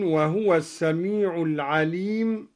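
"وهو" said wahwa with the ha unvowelled; silent ha. Shown as a demonstration. Teacher shows al-Duri's sukun on "وهو". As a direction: close the ha in "وهو" with no vowel. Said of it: "وسكن الهاء من".

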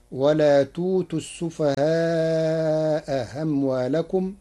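in السفهاء أموالكم the second hamza is softened; eased hamza. Shown as a demonstration. Teacher showing Warsh's eased hamza. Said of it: "بتسهيل الهمزة الثانية".

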